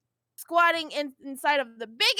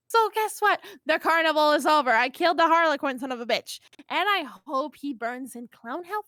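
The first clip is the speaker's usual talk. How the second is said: gloating. Acted. Vriska to the whole planet, gloating about killing the Harlequin. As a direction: crow about it.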